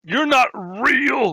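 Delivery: piercing, shrill, very high, full-volume scream, stretched out. Screaming at a skeleton that plays cards with a dismembered man: screaming at a skeleton. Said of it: "I scream at the skeleton".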